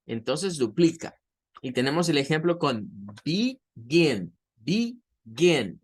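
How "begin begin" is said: begin, with GIN raised in pitch; stress on the second syllable. Shown as a demonstration. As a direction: split begin slowly and lift the voice on its last syllable. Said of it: "en la gen se sube el tono de voz". (begin, subiendo el tono de voz en la segunda sílaba)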